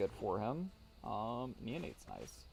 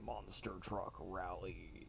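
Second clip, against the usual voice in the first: whispered ad tag; 7 dB quieter, much slower than usual. Pretend. Monster truck ad parody.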